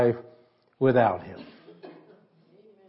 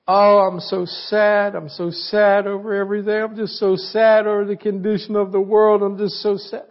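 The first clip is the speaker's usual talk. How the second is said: whiny, self-pitying sad voice; lightly hammed-up whine; mock whining; 3 semitones higher than usual. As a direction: mimic a constant complainer moaning. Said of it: "whining and complaining".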